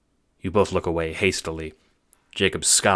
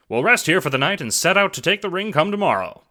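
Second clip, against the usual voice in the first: much higher, loud exclaim; loud announcement; 12 semitones higher, 6 dB louder than usual. Acted. Jacob breaking the silence, loud and brash.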